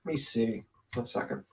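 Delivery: stuffy nose, sniffling. Real, not acted. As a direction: talk through a blocked nose. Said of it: "Sorry if I'm sniffling".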